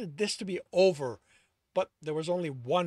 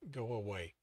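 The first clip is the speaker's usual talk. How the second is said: whispered; 6 semitones lower, 7 dB quieter than usual. A narrator's reading. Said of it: "he whispered, a hitch in his voice".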